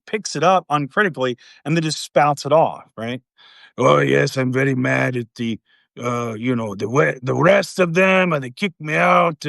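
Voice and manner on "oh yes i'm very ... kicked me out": hammed-up mock Russian accent; bad Russian accent. Kremlin caller griping to Trump on the phone, bad Russian accent. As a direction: put on a badly faked Russian accent. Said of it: "that's my bad Russian accent".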